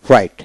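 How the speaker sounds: "রাইট" with no g or h sound; silent GH. Shown as a demonstration. Teacher showing learners silent letters, "রাইট" without GH. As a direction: say "রাইট" going straight from vowel to t. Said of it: "এখানে জি উচ্চারিত হবে না".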